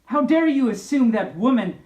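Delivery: hammed-up feminist outrage; indignant exclamation. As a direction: fling the accusations high and hard. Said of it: "she s-, exclaimed".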